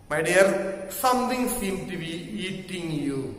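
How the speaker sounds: gentle, softened quoted remark; friendly concern. Retold or imitated. Athlete's friend touches his shoulder after the fouls, mildly friendly. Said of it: "in a friendly manner he said".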